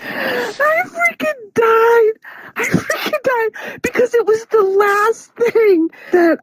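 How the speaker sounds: high, slow laughing sob; words squeezed out through tears of laughter; crying with laughter. Real, not acted.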